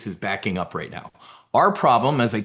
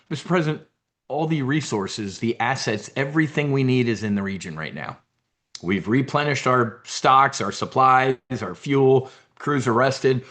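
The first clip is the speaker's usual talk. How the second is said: imitating the general; 2 semitones higher than usual. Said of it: "this is the way Raisin is talking to him".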